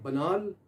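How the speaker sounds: "बनाल" said as buh-naal, long second vowel; British pronunciation. Shown as a demonstration. Teacher contrasts the British way of saying "बनाल". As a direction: give "बनाल" the British sound. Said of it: "English में इसको कहते हैं".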